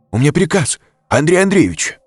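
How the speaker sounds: croaked protest, pitched high; strained croak. A narrator's reading. Bodyguard under the colonel's heel protests, croaking. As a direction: plead hoarsely from under the boot. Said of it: "прохрипел поверженный секьюрити".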